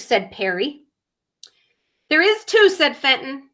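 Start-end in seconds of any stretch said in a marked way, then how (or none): 2.1-2.7 insisting. Acted. Frog insists in quarrel.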